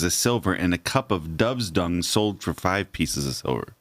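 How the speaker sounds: measured read-aloud narration; scripture reading. A narrator's reading. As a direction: read the Bible passage out clearly and evenly. Reads scripture passage aloud.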